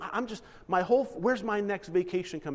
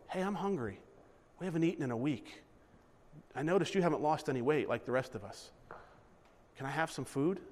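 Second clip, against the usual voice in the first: quiet pleading; 3 semitones lower, 5 dB quieter than usual. Acted. Hungry neighbour begging at door.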